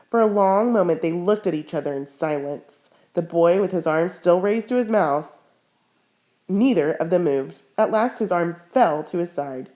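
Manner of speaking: reading a novel aloud to the class; expressive read-aloud with character voices; story reading. A narrator's reading. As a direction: bring the story alive for students. Teacher reads novel aloud to class.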